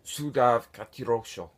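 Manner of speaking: "Sudav Katirosho" as two distinct alien words; deliberate alien-language "Sudav Katirosho"; Cybertronian pronunciation demo. Shown as a demonstration. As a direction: sound out "Sudav Katirosho" for the asker. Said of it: "How do you say Soundwave Superior".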